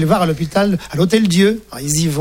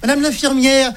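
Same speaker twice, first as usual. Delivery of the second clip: delighted; 5 semitones higher than usual. Acted. Fathers marvel at their baby.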